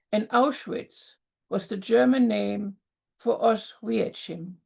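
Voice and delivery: deliberate poem reading with pauses between lines. Acted. Poet sharing her exonym poem at the open mic, deliberate poem reading. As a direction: read it to the room as a poem, line by line.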